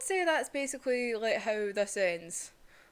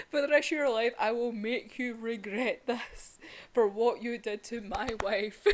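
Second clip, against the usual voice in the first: mock vow through laughter. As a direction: ham up a jealous oath while laughing. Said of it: "Zenitsu is like".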